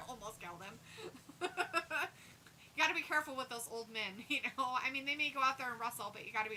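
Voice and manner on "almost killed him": laughing. Real, not acted. Laughing at his own joke.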